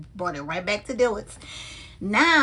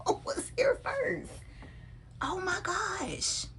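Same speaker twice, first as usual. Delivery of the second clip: breathy laughing question, much higher and softer; 11 semitones higher, 9 dB quieter, slower than usual. Real, not acted. Teasing viewers about her bags, laughing it out. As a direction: laugh the words out.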